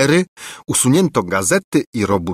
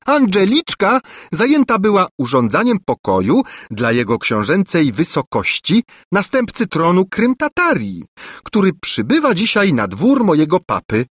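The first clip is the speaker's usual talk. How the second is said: haughty princess; 9 semitones higher than usual. A narrator's reading. Angelika boasts to Lulejka.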